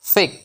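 ফেক ending in a k; ফেক, c sounded as k; correct FEC sound. Shown as a demonstration. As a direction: read FEC as "fek", ফেক. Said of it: "কয়ের মতো হবে".

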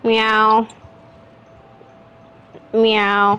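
playful human meowing; cat meow. Pretend. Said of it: "I'm a cat".

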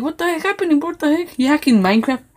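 high-pitched startled disbelief; mock scared. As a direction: act spooked by a prank. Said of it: "they'll be like scared".

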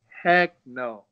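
high, loud, laughing protest; mock panicked refusal. Fighter to his coach, refusing in a high loud panic. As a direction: balk at walking in with killers.

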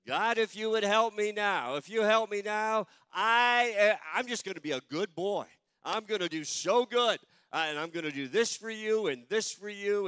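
high, loud, desperate begging to God; foxhole prayer. Acted. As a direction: plead like a scared kid promising to be good. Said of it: "none of us have ever prayed a prayer like that".

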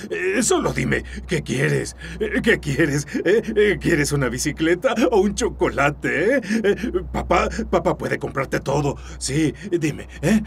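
deranged sweet-talk to an imagined son; coaxing a child. Acted. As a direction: wheedle a child who isn't there.

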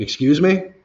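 imitating an indignant boss, high and loud; affronted retort. Manager challenging the worker's comeback, affronted. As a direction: shoot up in pitch, mock offended.

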